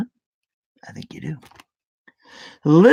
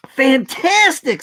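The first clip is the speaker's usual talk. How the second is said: delighted princess; 9 semitones higher, 5 dB louder, slower than usual. A narrator's reading. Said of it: "said Elizabeth".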